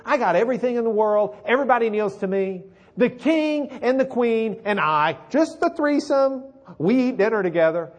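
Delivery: bragging loud and rising; a puffed-up braggart boasting to his wife; boastful Haman. Retold or imitated. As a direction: crow about everything you have.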